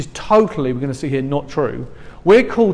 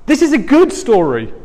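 high, bright protest, louder; mock reply to friends; 10 semitones higher, 4 dB louder than usual. Preacher voicing believers answering friends, high and loud. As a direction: lift the voice high to refute them. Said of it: "And we get to say".

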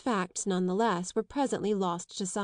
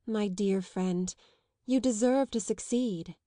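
slow, kind and gentle; very kindly; slower than usual. Acted. Isabel consoles the anxious young suitor, kindly. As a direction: reassure him with real kindness. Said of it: "said Isabel very kindly".

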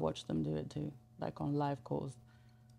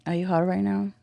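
teasing, commanding, a bit louder; sultry phone sex voice; 2 semitones higher, 6 dB louder than usual. Shown as a demonstration. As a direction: play the dominant caller. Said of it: "get in full character".

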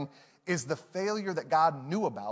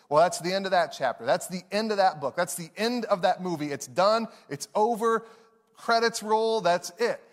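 defeated storyteller. Retold or imitated. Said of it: "we see failure as the conclusion".

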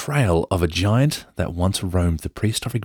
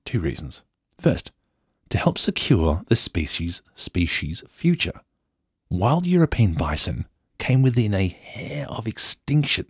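put-on posh English accent; 2 semitones higher than usual. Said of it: "go full Downton Abbey".

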